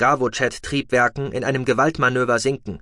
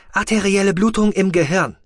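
a higher, mechanical machine voice; rasping med box; 9 semitones higher, 5 dB louder than usual. A narrator's reading. The medical box reporting vital signs in a mechanical rasp. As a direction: sound like a rattling medical device reading out. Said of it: "diagnostizierte der Automat".

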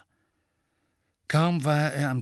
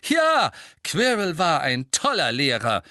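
raised, higher voice, defiant; loud; 7 semitones higher, 6 dB louder than usual. A narrator's reading. Harry interrupts his teacher's lecture, loudly. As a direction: call out over the teacher. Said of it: "sagte Harry laut".

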